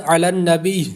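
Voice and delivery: علی النبی ending with an added breathy h sound; the mistake of adding h to علی النبی; غلط وقف; wrong reading. Shown as a demonstration. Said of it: "ہا کی آواز پیدا کر دے".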